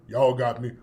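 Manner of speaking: very low mock-butch voice; bass-voiced Jussie. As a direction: drop deep into your chest, playing butch. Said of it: "all that bass in his voice".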